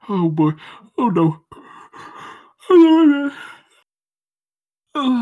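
sudden high loud oh no; alarmed. Real, not acted. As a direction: panic at being caught. Realizes partner may hear.

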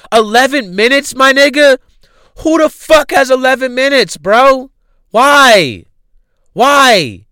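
high, loud disbelief; can't believe anyone sat through it; who has the time, outraged; incredulous. Real, not acted. Incredulous rant.

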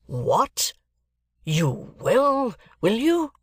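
high, indignant challenge; blustering. Acted. Guardian blusters over Mike's answer, indignant. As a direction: burst in, pitch climbing sharply. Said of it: "my guardian blustered out".

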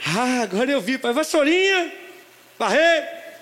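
put-on child's voice. Voz do filho.

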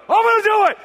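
high, very loud mock cheer; hyped-up shout. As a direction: yell it like taking up a dare. Hammed-up reply to reverse psychology.

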